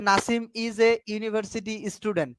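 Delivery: slow, carefully spaced example sentence; each word of the example spaced out; slow example reading. Shown as a demonstration. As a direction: read the sentence out slowly for the students. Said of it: "প্রতিটা শব্দের সাথে তাইলে কি বসবে?".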